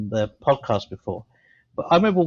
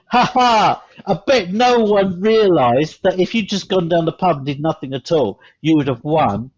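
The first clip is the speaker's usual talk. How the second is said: higher, louder smug announcer taunt; mock trainer gloating; 4 semitones higher, 4 dB louder than usual. Trainers revealing the trick to the teams, gloating. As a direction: crow it like the smug organiser. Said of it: "they said".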